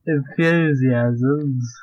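very drawn-out word; stretched mock delivery. Host relishing a silly word to friend, stretched mock delivery. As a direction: stretch every syllable out slowly. Repeats the word after Gollum remark.

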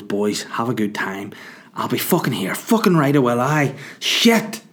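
spiral from calm farewell into yelps; losing it. Retold or imitated. Sammy saying goodbye to the boys, losing it in mock squeals. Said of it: "he just lost round himself".

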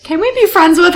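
high, eager mock plea; cute pleading imitation. Co-host imitating vampires asking for friendship, high mock plea. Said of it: "it's really cute that two of them".

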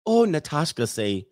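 lightly imitated foreign girlfriend's accent; Natasha's accent. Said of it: "in her accent".

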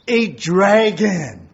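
slow, loud, growling dragon. Pretend. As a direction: roar it out like a dragon. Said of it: "spoke with the voice of a dragon".

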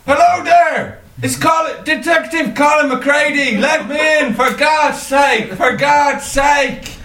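put-on Irish accent. Irish detective begging to be let in, shouting in Irish accent. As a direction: bellow in an Irish accent, drawing out the pleas. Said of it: "do an Irish accent".

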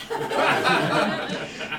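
mock-gothic verse read with big theatrical swings; dramatic poem recital. Comedian performs his Poe parody to the audience, theatrical. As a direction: recite it like a doomed Victorian poet.

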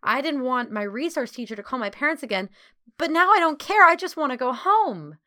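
chatterbox. A narrator's reading. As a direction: gush out the whole story, ending in a loud plea. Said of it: "back to her chatterbox self".

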